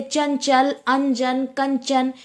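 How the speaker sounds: चंचल said slowly, the न not heard as न; slow example. Shown as a demonstration. Teacher slowly models चंचल with silent न. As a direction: draw out चंचल for the class. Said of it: "चंचल में ना silent होता है".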